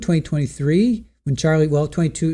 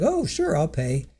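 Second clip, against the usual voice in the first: sarcastic mock; 6 dB quieter, slower than usual. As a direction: mimic a dismissive fake promise. Mocking Donna's offhand refusal.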